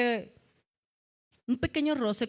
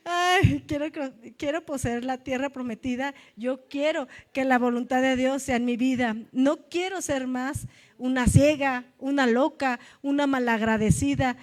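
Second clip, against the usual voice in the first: fervent preaching; 4 dB louder than usual. Acted. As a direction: declare it like a vow before the church.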